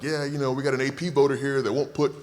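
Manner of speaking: teasing imitation of studio colleagues complaining; mocking cohosts. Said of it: "They're like".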